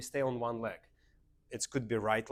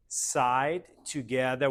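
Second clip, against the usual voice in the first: louder words spaced on the beat; rhythmic step calls; 6 dB louder, much slower than usual. Shown as a demonstration. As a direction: call out the moves to the class. Teacher calls steps on the beat.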